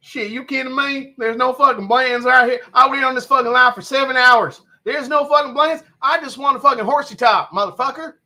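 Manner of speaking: high-pitched, exasperated comic character; Larry the Cable Guy. Acted. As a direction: gripe as a fed-up comedian stuck in line. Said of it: "Larry the Cable Guy".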